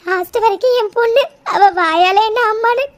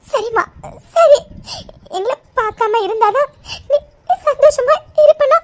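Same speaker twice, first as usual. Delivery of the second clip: tearful. Acted. Mother giving up, weeping.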